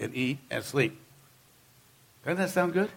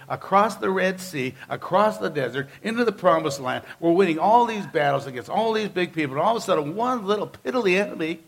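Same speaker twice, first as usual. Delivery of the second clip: imitating a complaining whine, slowed; mock whining to God; 2 semitones higher than usual. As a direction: whine at God like a beaten leader. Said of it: "starts crying to the Lord".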